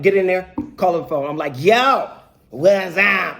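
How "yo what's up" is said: forced casual greeting; trying to be cool. Retold or imitated. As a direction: open big and breezy to hide the worry. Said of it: "Trying to be cool".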